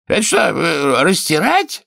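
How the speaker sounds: high, loud capricious king; whiny king. Acted. King inspecting the healer's knees and teeth, high and loud. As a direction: play a petty tyrant poking at his healer.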